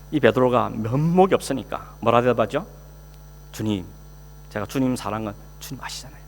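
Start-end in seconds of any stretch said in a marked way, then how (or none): 3.5-6.2 soft, barely audible reply from shame; small shrinking voice. Acted. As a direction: answer like you can't lift your head. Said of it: "아주 기어들어가는 목소리".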